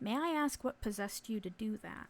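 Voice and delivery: gentle, very kind, quiet, soft-spoken voice. A chaperone questions Brett, in a very kind, quiet voice. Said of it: "in a very kind, quiet voice".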